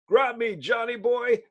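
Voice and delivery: loud, hearty call to grab on; loud call from a rescuer mid-catch; rescuer's shout. Acted. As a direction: shout up to the falling boy to grab hold. Stranger calls to the falling boy.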